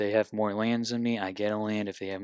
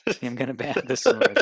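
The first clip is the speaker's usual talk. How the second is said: emphatic confirmation; 4 semitones higher, 10 dB louder than usual. Real, not acted.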